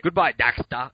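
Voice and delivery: loud mock cartoon accent; Dexter's Lab cartoon voice. Co-host imitating cartoon goodbye, loud put-on accent. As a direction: attempt a cartoon boy genius's farewell. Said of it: "What is this, Dexter's Lab?".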